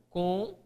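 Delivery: CONTRA split into "con... tra", with a long pause between; "Contra" broken slowly at the syllable boundary. Shown as a demonstration. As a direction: say "Contra" as two separated syllables, each drawn out. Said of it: "Qual a separação da palavra contra?".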